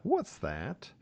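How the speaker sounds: small, high, soft voice; shy, quiet person. Retold or imitated. Shyest pupil coming up to ask the teacher, quiet and timid. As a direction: imitate a timid pupil asking very softly. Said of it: "sort of shyest, quietest person".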